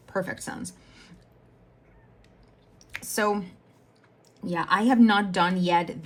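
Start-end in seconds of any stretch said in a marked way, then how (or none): 0.1-0.7 whispered. Real, not acted. Wry aside after a realization.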